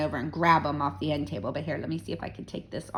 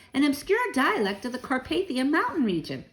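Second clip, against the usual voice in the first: smug answer; 7 semitones higher than usual. A narrator's reading. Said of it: "I answered smugly".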